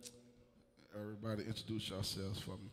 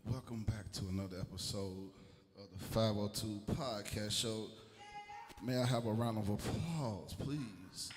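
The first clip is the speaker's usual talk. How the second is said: hype host announcement; slower than usual. Real, not acted. Host hyping the audience.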